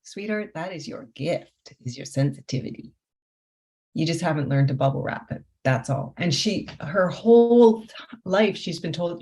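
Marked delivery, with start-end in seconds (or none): 0.0-6.1 soft, gentle comfort; tender reassurance. Retold or imitated. Coach comforting her crying client about her gift, soft and tender. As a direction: soothe her quietly, like calming someone in tears.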